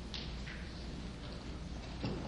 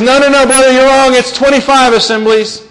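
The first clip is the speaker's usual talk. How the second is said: higher-pitched, insistent correction; mock objection; 6 semitones higher, 4 dB louder than usual. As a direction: contradict them like a quarrelling church member. Acts out objector in a dispute.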